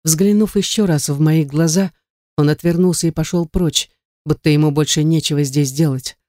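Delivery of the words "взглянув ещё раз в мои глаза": ordinary delivery, nothing marked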